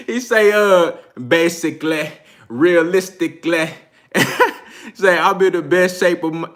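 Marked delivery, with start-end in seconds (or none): 1.3-3.7 lightly mimicked British accent; Kell Brook accent. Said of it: "in no other accent but Kel". 5.2-6.5 lightly imitated British accent, about to crack up; a hint of British boxer's accent; Kell Brook accent. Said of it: "in no other accent but Kel".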